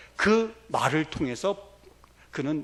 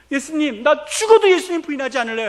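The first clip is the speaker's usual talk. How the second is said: loud vow; 9 semitones higher, 8 dB louder than usual. Retold or imitated. Peter vowing to Jesus.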